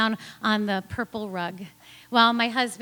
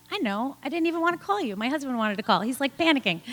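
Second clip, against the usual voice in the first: quick, higher, defensive retort; 4 semitones higher, faster than usual. Retold or imitated. Retelling talking back to the nurse, defensive. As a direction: brush off the nurse, a bit prickly. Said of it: "I got a little defensive".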